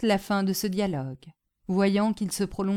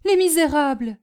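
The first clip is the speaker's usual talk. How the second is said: louder, higher outburst; outraged nursemaid's exclamation; indignant exclamation; 8 semitones higher, 9 dB louder than usual. A narrator's reading. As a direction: cry out at the culprits. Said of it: "s'écria Prudence".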